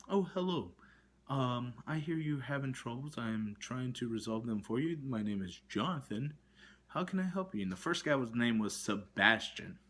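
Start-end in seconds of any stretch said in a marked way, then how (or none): 0.1-7.6 different agent voice. Retold or imitated. Caller mocks the so-called new agent, lightly imitated polite voice. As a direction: mimic the second agent's sugary greeting. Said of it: "completely different voice".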